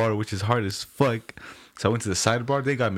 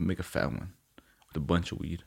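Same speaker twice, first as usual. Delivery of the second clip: hushed whisper to close the thought; soft unvoiced aside; 6 semitones lower, 7 dB quieter than usual. Real, not acted. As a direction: drop to a whisper. Whispering about the fat joint.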